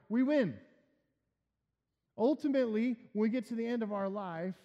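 rally the church with certainty; triumphant preaching. Acted.

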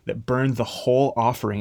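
usual speaking voice

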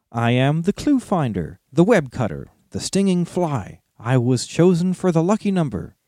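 proud little hobbit, riddling. Acted. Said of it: "went on Bilbo".

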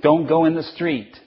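mildly stern parent command; strict parental rule. Acted. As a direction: tell a small child firmly. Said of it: "those are very strict rules".

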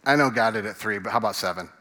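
lightly voiced eager disciple; Peter. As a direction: pitch it like a pupil sure he's scoring. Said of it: "Back to the voice again".

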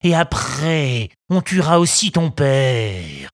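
slow, heavy threatening robber; menacing bandit. Acted. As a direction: lean on each word to scare.

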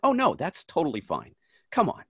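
lightly acted "no problem at all"; retold reassurance. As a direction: act out waving away a fan's worry. Retelling his reassurance to a fan.

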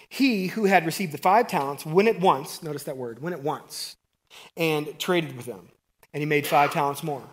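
measured Bible reading voice; reading scripture to the congregation. Acted. Reads scripture passage aloud.

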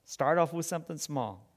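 soft, gentle repeat of "Start off with something small"; soft echo. Shown as a demonstration. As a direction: drop the voice for the repeat. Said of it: "just start off with something small".

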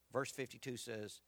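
usual speaking voice

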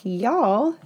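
"Y'all" in a Northern accent, rising at the end. Shown as a demonstration. Friend showing y'all sounds wrong from a Northerner, Northern accent. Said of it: "in a northern voice".

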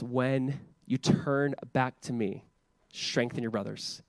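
Jesus gently reassuring Peter, slow and soft; tender. Acted. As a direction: speak it like a gentle promise. Tender voicing of Jesus' promise.

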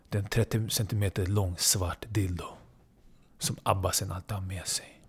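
soft, low, deliberate storytelling with long pauses; hushed suspense narration. Acted. Storyteller sets up Abbasen fetching his weapon, hushed and ominous. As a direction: drop your voice to build menace.

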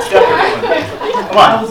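high, laughing repeat. Real, not acted. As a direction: say it through giggles.

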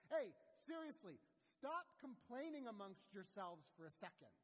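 hammed-up scolding from a preacher; exasperated Jesus. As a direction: call the complainers to order. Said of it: "and Jesus goes".

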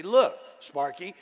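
loud, playful nudge; a lightly voiced Jesus ribbing a worrier; teasing Jesus. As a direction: chide him like a friendly coach. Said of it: "I think Jesus would say".

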